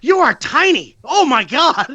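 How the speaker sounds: high, loud gushing cry; teasing a tiny friend, high and loud; excited squeal. Retold or imitated. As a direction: coo over how small he is. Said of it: "I'm like".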